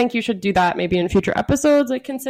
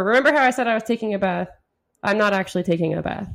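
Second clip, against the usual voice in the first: faster regular voice; much faster than usual. Shown as a demonstration. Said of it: "Just regular voice".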